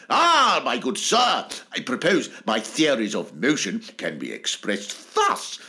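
a hint of a plummy lecturer; mock-grand old scholar, lightly done; posh Newton. Isaac Newton lecturing the Royal Society, mildly posh. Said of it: "giving lectures that went".

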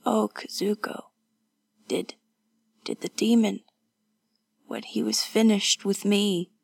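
halting, whispery at first; weak, dreading. Acted. Wounded woman asking about the demon, halting dread. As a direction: falter on the question, then push it out.

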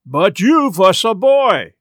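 slow Swedish dismissal; curt Swedish accent. Acted. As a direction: Swedish sailor waving him off. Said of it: "Emil answers".

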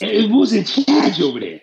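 high-pitched mock Boston accent. Riffing on co-host's story about a white comedian, Boston accent. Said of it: "I like your, I can't do the accent".

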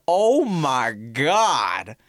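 high, slow, awestruck; amazed. Retold or imitated. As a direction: gawk at it in awe. Awed at corset.

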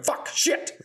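"Fuck, shit" as two voiceless percussive beats; whispery, rhythmic "Fuck, shit"; cursing to music. Retold or imitated. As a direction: spit "Fuck, shit" out like beats, hissed and cut short. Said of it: "rocking to music going".

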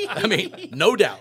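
words spilling out through a big laugh. Real, not acted. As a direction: laugh loudly while talking.

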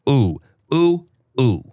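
drifting, dazed and slowed down; stoned. Real, not acted. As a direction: let the high wash over you. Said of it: "I think my edible hit".

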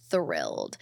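Thrilled dropped very low and soft, flat fall; deadpan thrilled. Shown as a demonstration. Fan mock-underplaying joy about a singer, very low deadpan. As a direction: sink the word Thrilled into a deep, quiet deadpan.

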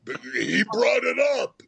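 mother defending her remark, high and loud; mock defensive cry. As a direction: protest like a scolded mother. Mom defending herself, retold.

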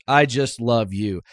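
meek, slowed-down little admission; sheepish. Retold or imitated. Scott answering Trump onstage, slow and sheepish. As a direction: say it sheepishly, almost apologizing. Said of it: "Scott sort of sheepishly goes".

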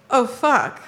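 short, matter-of-fact uh-oh; worried curse. Shown as a demonstration. Showing the wrong way to say it in bed, a short worried curse. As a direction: say it quickly, as if something's wrong.

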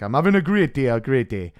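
put-on botched Welsh accent drifting into Geordie. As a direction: imitate Welsh, slipping a bit Geordie. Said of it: "bit Geordie".

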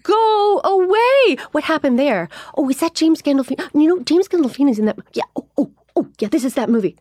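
high, loud mock husband voice; wife mocking her husband while he flips channels. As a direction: play the husband fending her off. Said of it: "He's like".

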